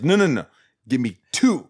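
insistent order with "two" stressed and lifted. Retold or imitated. Cop stopping his partner leaving, insistent stress on two. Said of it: "he makes a special point".

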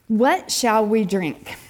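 slow, drawn-out mock complaint; complaining. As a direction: act out the people's grumbling, dragging the words. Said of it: "the people complained against Moses".

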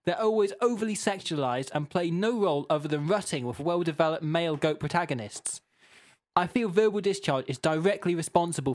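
mildly shouty, indignant complaint; impassioned reading. Acted. Host reading Jean's all-caps feedback, mildly impassioned. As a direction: build the case like an aggrieved listener. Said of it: "that's impassioned feedback again".

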